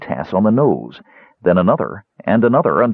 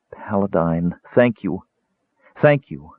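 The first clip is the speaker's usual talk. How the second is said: fervent intoning. A narrator's reading. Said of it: "intone fervently".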